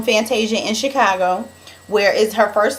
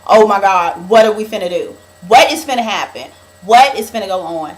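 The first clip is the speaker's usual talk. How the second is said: mock panic; 4 dB louder than usual. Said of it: "most of it was centered around".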